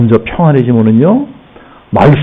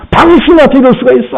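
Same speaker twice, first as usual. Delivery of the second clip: high-pitched mock accusation, jabbing; accusing God; 10 semitones higher than usual. Preacher imitating a believer pointing a finger at God, mock accusing. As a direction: hurl a wounded reproach upward. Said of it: "삿대질하는 분도 봤어요".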